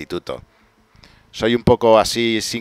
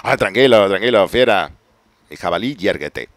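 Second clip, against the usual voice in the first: soothing a pet; 5 dB louder than usual. Pretend. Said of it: "a un jabalí".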